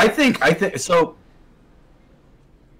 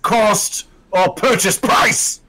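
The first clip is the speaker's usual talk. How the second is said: dark lord; 3 semitones higher, slower than usual. Acted. Villain speech continues.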